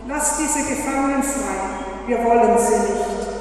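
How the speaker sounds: lightly voiced captain snapping an order; snapped order. Captain snapping at his men to free the prisoners, mild curt order. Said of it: "schnauzte seine Männer an".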